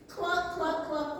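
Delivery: high cluck through a laugh; laughing hen cluck. Shown as a demonstration. Teller shows the hen sound, laughing. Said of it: "What sound does a hen make?".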